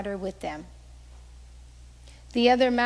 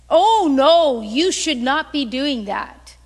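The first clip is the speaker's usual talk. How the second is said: loud, emphatic "oh no"; disapproving objection; 8 dB louder than usual. Retold or imitated. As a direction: object firmly, as a disapproving relative. Relative objecting to her giving, acted out.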